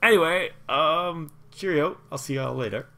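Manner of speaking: high, loud, chipper farewell; cheery goodbye. Acted. Halfling courier bidding the party farewell, high and chipper. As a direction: bounce off with a cheerio.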